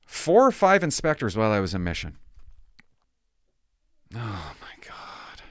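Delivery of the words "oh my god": slow breathless unvoiced whisper; whispered oh my God. Real, not acted. Seeing the old inspector's name on his file, stunned whisper. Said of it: "reacting to the file".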